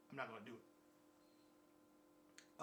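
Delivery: slow whispered aside; whispered refusal to post private thoughts, slow. Real, not acted. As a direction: whisper it slowly to yourself. Quiet aside.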